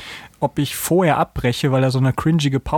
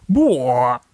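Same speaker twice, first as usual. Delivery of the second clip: explosive owl call; 5 semitones higher than usual. Shown as a demonstration. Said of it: "explosiven, hörenden, zweisilbigen Laut".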